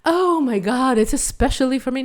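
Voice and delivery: gushing, hammed-up fainting delight; quick breathless mock rapture; mock swooning drama. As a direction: overplay it like you're about to faint. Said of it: "it's not like we're fainting and it's very dramatic".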